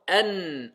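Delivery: An with the n pressed down, no bounce; n crushed flat. Shown as a demonstration. Teacher showing the crushed n to students. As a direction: squash the n of An. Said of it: "on l'écrase".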